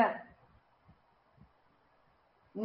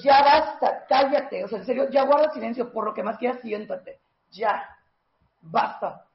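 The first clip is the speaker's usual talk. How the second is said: exasperated husband telling her to shut up; exasperated snapping; 4 dB louder than usual. Retold or imitated. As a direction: snap ya basta like a fed-up husband.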